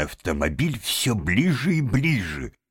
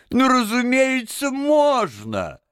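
high, eager consent; touched, indulgent; slower than usual. A narrator's reading. Gentleman lets the washerwoman sit in front, fondly indulgent. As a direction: agree gladly, pitched high and charmed. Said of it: "умилился джентльмен".

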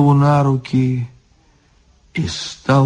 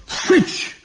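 high, half-voiceless spit of a word; hissed retort; 5 dB quieter than usual. A narrator's reading. Drunk guard cutting the devil off, hissed retort. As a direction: spit it out in a sharp hiss.

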